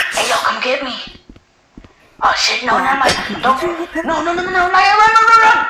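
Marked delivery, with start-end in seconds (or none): 2.2-5.6 rising frantic high shouts; panicked yelling. Real, not acted. Player screams at teammate to run from the chaser, panicked. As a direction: scream at them to flee.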